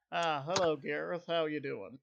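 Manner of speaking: lightly put-on southern accent; bad southern accent. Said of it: "my bad southern accent".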